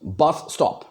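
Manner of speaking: "बस स्टॉप" with equal force on both words; both words stressed. Shown as a demonstration. Teacher demonstrating a spondee, both parts of "बस स्टॉप" stressed. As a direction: press on each half of "बस स्टॉप". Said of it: "दोनों side में मैं force दे रहा हूँ".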